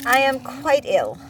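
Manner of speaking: loud pitiful invalid; sick Bear voice. A narrator's reading. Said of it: "Bear reminded him".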